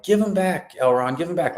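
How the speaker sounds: put-on high, childish plea; hammed-up petulant "give him back"; mock whiny Galadriel. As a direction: whine it like a kid squabbling over a toy. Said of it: "and she's like".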